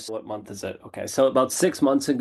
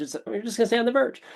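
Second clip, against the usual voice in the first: high, fast mocking lilt; a playful jab; mock sing-song; 10 semitones higher, faster than usual. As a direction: taunt that you'll stay stuck.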